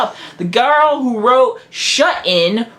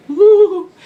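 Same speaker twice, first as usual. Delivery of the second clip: mock whoop; 9 semitones higher, 5 dB louder than usual. Mock cheer after sequel tease.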